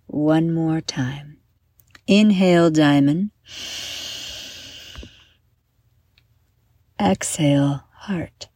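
measured guided-meditation delivery with long pauses; guided breathing. Acted. Host leading young listeners through heart diamond breathing, guided meditation. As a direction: talk listeners gently through each breath, leaving room to breathe.

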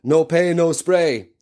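slow, high mock Nigerian sales patter; imitated Nigerian accent. Bathroom attendant joking with customers, in a mock Nigerian accent. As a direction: chant it slowly in a put-on Nigerian accent. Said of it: "he'd say stuff like".

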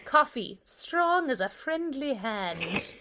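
slow, hammed-up Irish brogue; bad Irish accent. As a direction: draw out the rhyme in a twee Irish accent. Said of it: "My Irish accent is worse".

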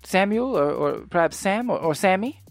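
lightly voiced proper, uncertain character; a touch of earnest formality; polite, earnest Hutch. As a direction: answer politely, searching for the right name. GM plays Hutch answering questions.

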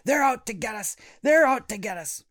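high, loud mock panic; panicked kids. Kids warning each other about zombie parents, hammed-up panic. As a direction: cry it out in pretend terror.

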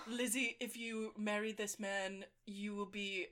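soft, slow, measured father voice; hushed, deliberate movie-quote delivery; film father. Acted. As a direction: quietly hand down a grave verdict. Quotes father from Pride and Prejudice.

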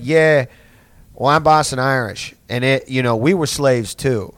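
lightly put-on Boston Irish accent. Comic imitating a Boston Irish guy claiming hardship, Boston accent. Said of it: "in fucking stupid accent".

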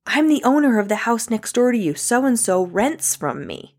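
high, imperious mock indignation; retold irate caller. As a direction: play the irate landlady, starting high and slowing down. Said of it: "like, irate".

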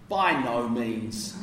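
slow, mild "By no means"; understated. Shown as a demonstration. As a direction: draw out "By no means" politely. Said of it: "It's so understated".

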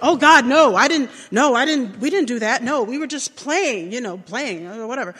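put-on panicked kids. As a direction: blurt it out like caught kids.

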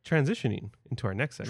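quick, throwaway segment intro; rushed mumble. Shown as a demonstration. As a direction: toss off the line hurriedly. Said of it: "Transition. Come on".

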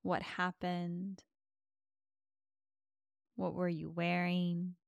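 usual speaking voice

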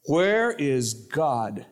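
a hint of a stern old rabbi, very slow on the question. Rabbi staring down the boy across the desk, very slow. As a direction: press the boy, stretching each word. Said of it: "the rabbi said".

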